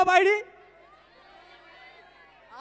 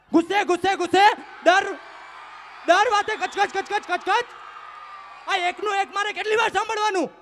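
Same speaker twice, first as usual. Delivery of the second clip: fed-up outburst. Acted. Boyfriend finally snaps.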